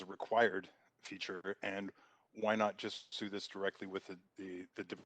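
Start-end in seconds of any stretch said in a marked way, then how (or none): 2.3-5.0 choppy call audio, words dropping; connection cutting out. Real, not acted. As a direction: voice breaking up on a bad line. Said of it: "you're cutting out".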